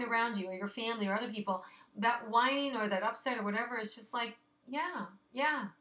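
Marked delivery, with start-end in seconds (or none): 4.7-5.7 bright, high cheer-on yeah yeah; higher, encouraging yeah yeah; cheering someone on. Pretend. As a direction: egg a friend on through pain. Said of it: "just cheer 'em on".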